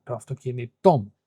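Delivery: "αυτοκίνητό" said quickly, stressed on κί and τό; quick "αυτοκίνητό μου" with the second stress on τό; two stresses. Shown as a demonstration. Teacher repeating the example after explaining, double stress on "αυτοκίνητό". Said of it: "one of the kinito".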